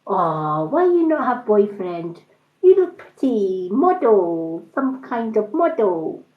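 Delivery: a hint of a Chinese accent, nosy questions; Chinese accent impression. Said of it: "comedy nail thing".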